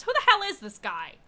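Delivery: loud and high, offended and alarmed; woman snapping at the bartender about a stranger; indignant outburst. Acted. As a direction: blurt it out at the stranger, outraged. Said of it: "she goes".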